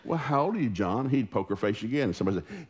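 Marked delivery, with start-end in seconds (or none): 0.1-1.1 put-on adult addressing small child. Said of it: "people would bend over at church".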